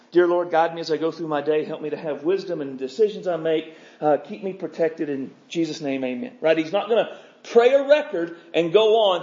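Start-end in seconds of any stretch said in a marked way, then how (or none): 0.1-6.4 a recited canned morning prayer, hurried and fading; rote recorded prayer. Retold or imitated. Preacher mocking a rote prayer: quick, fading rattle. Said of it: "put on a record of his morning prayer".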